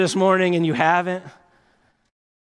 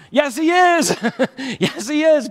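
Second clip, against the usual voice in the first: emphatic retort; 6 semitones higher than usual. Real, not acted. Preacher answering the doubter, high and emphatic. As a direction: answer back with force.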